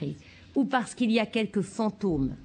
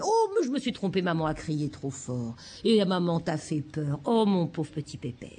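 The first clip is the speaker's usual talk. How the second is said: apologetic parent; 3 semitones lower than usual. Shown as a demonstration. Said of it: "il dit".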